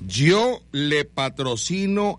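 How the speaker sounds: slow, drawn-out proclamation; announcer reading a message. Pretend. Host reads a sponsor's message for Rubí, slow ceremonial announcer. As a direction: read the telegram out with mock ceremony.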